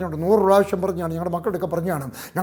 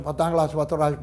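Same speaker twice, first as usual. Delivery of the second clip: usual speaking voice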